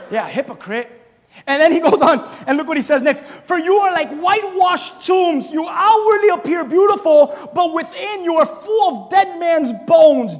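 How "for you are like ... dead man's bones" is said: slow, loud preached condemnation; shouted condemnation from the pulpit; shouting rebuke. Acted. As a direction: thunder it at the hypocrites.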